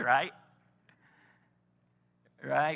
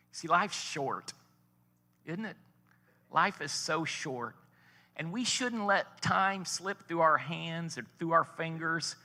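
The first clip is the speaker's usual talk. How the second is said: earnest slow; 2 semitones higher, slower than usual. Real, not acted. Preacher's earnest reflection.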